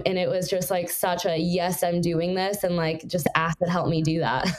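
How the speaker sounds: distorted, clipping mic; crackling audio. Real, not acted. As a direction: voice breaking up over a bad connection. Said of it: "Your, your audio is crackling".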